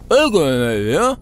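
talking with a full mouth; words through cookie crumbs. Acted. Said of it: "don't talk with your mouth full".

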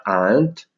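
"ant" as one syllable, long vowel; pronuncia mostrata. Shown as a demonstration. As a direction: model "ant" slowly, with no r. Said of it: "si pronuncia ant". ("ant" scandito in una sola sillaba)

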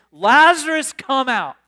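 calling out high and loud, Lazarus; loud cry. Acted. Jesus calls Lazarus out of the grave, loud cry. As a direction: cry it out to the tomb. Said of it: "he cried out with a loud voice".

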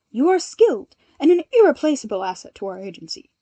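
loud, sincere and formal; a touch of formal earnestness; earnest. A narrator's reading. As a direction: insist sincerely, like a proud boss. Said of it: "Ida told him earnestly".

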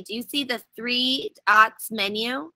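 slow, careful walkthrough; slowly. Shown as a demonstration. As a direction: spell out each step slowly. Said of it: "let me do this slowly".

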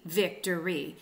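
slow VIC-to-ry, first syllable stressed; drawn-out "victory", weight on "vic"; dactylic stress. Shown as a demonstration. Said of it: "stressed, and then two unstressed".

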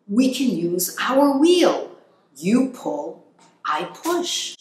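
eager hamster voice. Acted. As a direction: pitch the plan like a thrilled tiny hamster. Hamster plans escape, voiced.

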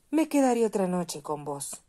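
a hint of a kind little bird; kind swallow. A narrator's reading. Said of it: "dijo la golondrina".

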